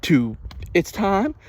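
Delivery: high, slow hammed-up pitch; mock grandma ad voice. Imitating the grandma's ad line, high and slow. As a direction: stretch it out like the ad. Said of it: "she's like".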